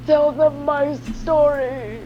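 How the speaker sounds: mock dying words. Player as fallen hero begging a last wish. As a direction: ham up a fallen hero's final plea.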